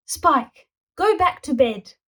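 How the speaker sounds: high, loud firm command; stern order. A narrator's reading. Granny ordering grandson back to bed. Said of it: "ordered Grannysaurus".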